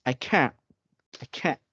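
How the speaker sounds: can't with silent T at the end. Shown as a demonstration. Teacher showing why T vanishes, British-style can't. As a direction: swallow the final T of can't. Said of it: "you cannot hear the letter T at the end".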